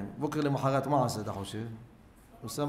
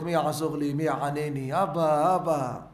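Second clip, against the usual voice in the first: retold cry for help, moderately raised voice; 5 dB louder, slower than usual. Abandoned boy on an island calls for his father, crying out. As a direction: call out as the abandoned child would. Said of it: "והתחיל לזעוק".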